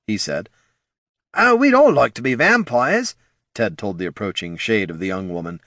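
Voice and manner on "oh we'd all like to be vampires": high, loud character voice; ghoul's remark. Acted. Ted tells the shade of the young woman, high voice. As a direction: answer in a high-pitched ghoul voice.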